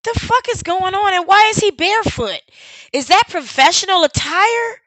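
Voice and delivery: what on earth am I looking at; baffled disbelief. Real, not acted. Streamer reacting to footage of the barefoot man, baffled disbelief.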